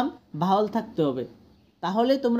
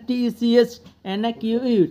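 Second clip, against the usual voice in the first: letter by letter, evenly; spelled out; 3 semitones higher, 3 dB louder than usual. Shown as a demonstration. Teacher spells out an English word for students, spelled out. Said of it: "এই বানানটা".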